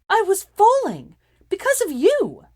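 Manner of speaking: very high, loud slow shout; countered. A narrator's reading. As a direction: scream the defense. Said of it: "she countered".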